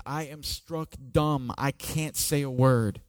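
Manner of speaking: stunned hush. Acted. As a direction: speak as if struck speechless. Isaiah's quote rendered as stunned.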